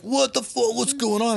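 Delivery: Andy landing into chaos, baffled; confused disbelief. Retold or imitated. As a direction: sound completely lost.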